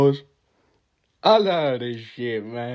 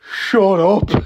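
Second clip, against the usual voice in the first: laughing; 8 semitones higher, 11 dB louder than usual. Real, not acted. Laughing at own impression.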